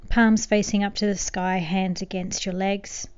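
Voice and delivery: gentle, unhurried meditation guidance with long pauses; soothing meditation voice, lightly hushed; guided meditation. Acted. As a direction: ease the listener into calm, softening toward the ends of phrases.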